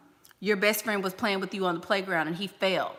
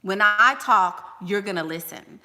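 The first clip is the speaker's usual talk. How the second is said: with authority; 5 dB louder than usual. Shown as a demonstration. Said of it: "you speak with authority".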